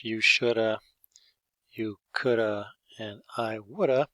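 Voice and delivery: "shoulda", "coulda", "woulda" run together with the have dropped; reduced shoulda forms. Shown as a demonstration. Teacher demoing casual spoken forms to students, slurred contractions. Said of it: "So in French".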